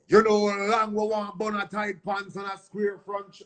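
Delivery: lightly voiced deejay intro; mimicking a dancehall artist. Retelling the studio take, light mimic of the artist. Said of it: "when I did the intro".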